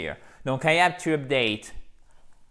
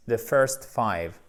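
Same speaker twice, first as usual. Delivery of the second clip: slowly, word by word: "The first five"; slow model phrase; 4 semitones lower, much slower than usual. Shown as a demonstration. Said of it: "En anglais, on inverse".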